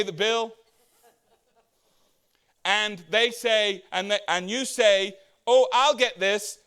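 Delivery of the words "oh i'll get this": slow, falsely generous offer; feigned generosity. Retold or imitated. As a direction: pretend you're happy to pay. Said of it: "You feign like you're not cheap".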